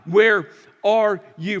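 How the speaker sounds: loud, slow desperate plea; crying out to God. Retold or imitated. Grieving parent crying out to God, loud slow plea. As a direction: call out in grief, stretched. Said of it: "you screamed out to God".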